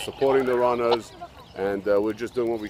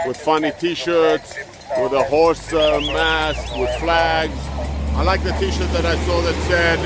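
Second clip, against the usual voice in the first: louder and higher, over the rain; raised voice; 5 semitones higher, 4 dB louder than usual. Real, not acted. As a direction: speak up over heavy rain. Talking over heavy rain.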